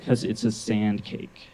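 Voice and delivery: slow, deadpan mock child certainty; dead serious. Niece correcting her uncle, imitated dead-serious slow delivery. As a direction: spell it out slowly, no joking. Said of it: "just dead serious".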